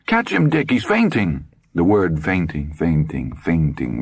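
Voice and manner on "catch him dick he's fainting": high, urgent mother's cry; sharp alarmed cry. A narrator's reading. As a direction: call out sharply as her son falls. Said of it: "his mother cry sharply".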